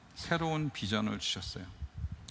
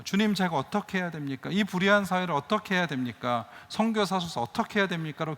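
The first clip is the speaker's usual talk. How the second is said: higher, earnest cry to God; pleading prayer; 6 semitones higher than usual. Retold or imitated. Retold prayer of anguish. (하나님께 간절히 부르짖는 기도)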